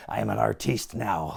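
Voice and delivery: sudden composure, imitating a calm wrestler. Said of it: "snaps back into the calm".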